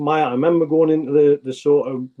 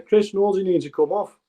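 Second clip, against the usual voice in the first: retold shout; 6 semitones higher than usual. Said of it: "So I've shouted over to Chris".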